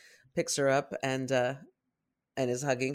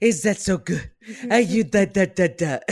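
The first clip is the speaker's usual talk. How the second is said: put-on high, loud baby talk to a pet; talking to a dog; 6 semitones higher, 13 dB louder than usual. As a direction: coo at the puppy with baby talk. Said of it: "talking to Mabel like that".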